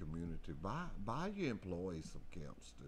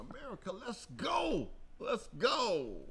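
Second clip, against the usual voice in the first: high, loud rallying yell; hype-man shout; excited shout; 14 semitones higher, 3 dB louder than usual. Real, not acted. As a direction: whip up the crowd. Hyping up listeners.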